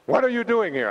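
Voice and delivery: high, loud amazed squeal; breathless fan surprise; starstruck shriek. Retold or imitated. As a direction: gush with disbelief at meeting him. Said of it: "like, insane".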